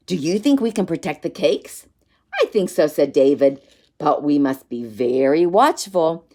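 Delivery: put-on lively reading to children; story narration. A narrator's reading. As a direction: read it like a bedtime story. Reads a picture book aloud.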